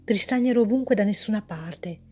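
measured, even storyteller reading; story narration. A narrator's reading. Author reading her story aloud, calm narration. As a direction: read the tale calmly to listeners.

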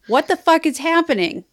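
high-pitched, baffled outburst; retold shock. Reader recalling her reaction to messages, retold shock. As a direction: re-enact being thrown by a twist.

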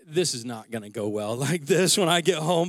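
chuckling through the line; half-laughing realization. Retold or imitated. Realizing mid-race his anniversary mood is ruined, laughing. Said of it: "I was like".

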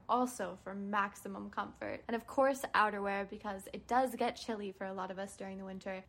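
soft, smooth sponsor read. Acted. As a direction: read it like a polished ad. Host reads sponsor ad.

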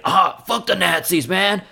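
high, loud macho action hero; Duke Nukem. Retold or imitated. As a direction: bellow it like a cartoon action hero. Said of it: "like Duke Nukem".

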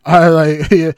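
flat, bored monotone. Retold or imitated. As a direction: drone it out with no life. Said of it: "she did the most monotone voice".

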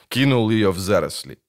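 plain reading voice

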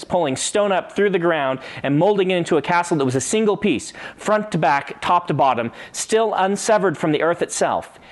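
steady read-aloud narration of a fantasy passage; story reading. Acted. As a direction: read the opening like an audiobook. Reads the novel passage aloud.

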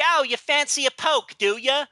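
hammed-up old London Cockney accent; lightly put-on Cockney tart voice from the 1860s; a touch of Victorian Cockney; mock Cockney accent. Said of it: "they all sound like they're straight out of eighteen sixty".

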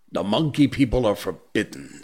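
a bear teacher, gravely displeased; stern old bear. Acted. Baloo's warning.

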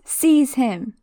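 Voldemort ordering Quirrell to grab Harry; screamed order. Acted. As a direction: bark it at the servant. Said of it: "Voldemort screams".

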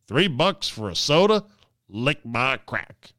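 imitating a rude tourist again; crude airport guy. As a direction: lay the insult down like a grumpy cheapskate. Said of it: "'Cause he didn't wanna pay three bucks".

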